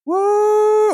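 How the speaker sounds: high, loud whooping cheer. Acted. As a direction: whoop it out like a hype man. Streamer cheering on wholesome stream.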